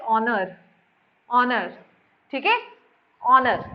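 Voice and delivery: ऑनर said as "onar", no h sound, repeated slowly; silent h. Shown as a demonstration. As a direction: say ऑनर with no h at the start. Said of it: "इसे क्या बोलते हैं?". (ऑनर को बिना ह के बोलिए)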